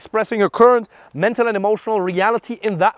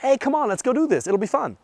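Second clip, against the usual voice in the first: emphatic; 7 semitones higher than usual. Shown as a demonstration. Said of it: "be emphatic".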